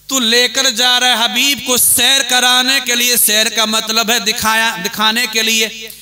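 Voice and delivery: sustained, ringing sermon delivery; impassioned preaching. Acted. Preacher arguing the Prophet's night sight to the congregation, impassioned preaching. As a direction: preach it to the crowd with drive.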